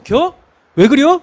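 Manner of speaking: 충청도 사투리로 "왜 그려?"; Chungcheong dialect. Retold or imitated. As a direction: imitate his child self in Chungcheong dialect, with "그려" in place of "그래". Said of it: "이랬어요".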